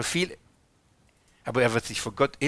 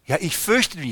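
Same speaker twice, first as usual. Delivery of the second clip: a touch of a frightened Adam, a little higher; 4 semitones higher than usual. Acted. Adam answers God, lightly voiced and timid.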